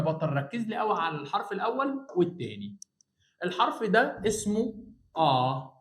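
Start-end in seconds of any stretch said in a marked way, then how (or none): 5.2-5.7 short آ as if bumped into something; آ said like a startled cry; open vowel آ. Shown as a demonstration. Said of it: "صوتي طالع لفوق كده، أكني اتخبطت في حاجة". (آ مفتوحة قصيرة كأنك اتخبطت)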